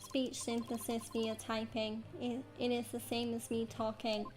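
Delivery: flat synthetic monotone; robot voice. Acted. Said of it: "He sounds exactly like a robot".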